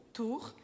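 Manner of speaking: "Tour" with OU as a plain "u"; French OU sound. Shown as a demonstration. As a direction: say "Tour" like "tur", R scraped in the throat. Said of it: "é o nosso som de U". ("Tour" com som de U)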